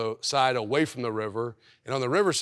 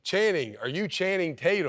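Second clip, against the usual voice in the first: mild mock yell, pitched higher; retold yell; 5 semitones higher than usual. Girl across the street asks if he's Channing Tatum, mild mock yell. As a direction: imitate a girl calling out, without really shouting. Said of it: "And she's yelling at me".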